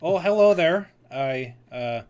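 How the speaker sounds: loud, startled hello then stammering; flustered greeting. Acted. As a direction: caught off guard, stumble over the words. Nigel flustered by Katrina.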